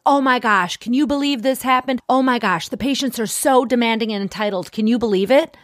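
high, indignant mock gossip; mock riled up. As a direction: send up someone all riled up. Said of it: "people get all riled up".

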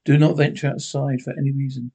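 steady, formal radio announcer read; emergency news bulletin. Acted. Radio announcer warning citizens to stay home, formal bulletin read. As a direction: inform the listeners calmly but urgently.

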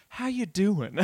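hushed heartfelt how are you; soft one-on-one concern. Retold or imitated. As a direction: lean in like a gentle friend. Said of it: "kneeling down and putting my hand on your shoulder like".

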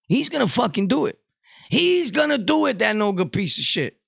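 rising outrage. Real, not acted. Outraged at imagined poisoner.

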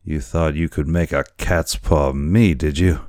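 put-on lightly slurring, threatening drunk boatswain; a hint of drunken menace; drunken sailor. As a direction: drag the words out like a drunken sailor. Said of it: "how drunken it appeared".

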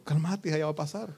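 normal talking voice

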